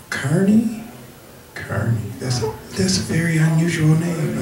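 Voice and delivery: high, laughing mock caller voice; hammed-up high caller voice; nosy caller. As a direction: squeak out a nosy caller's question. Caller voiced in phone story.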